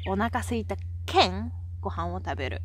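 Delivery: Hakata-ben, the "県" ending set apart; teacher's demonstration of Hakata dialect. Shown as a demonstration. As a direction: stretch "県" as a clear "keng" before going on. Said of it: "we say".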